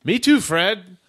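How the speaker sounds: high loud robot chat. Acted. Second robot chats.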